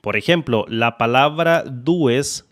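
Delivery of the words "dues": "dues" with every letter sounded, du-es; read as written. Shown as a demonstration. Presenting an example word to learners, "dues" read as written. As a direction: say "dues" exactly as spelled, Spanish vowels. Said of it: "la voy a pronunciar así tal cual".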